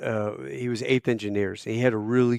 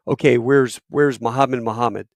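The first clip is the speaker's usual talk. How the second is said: calling out; 7 dB louder than usual. Retold or imitated. Major calling roll.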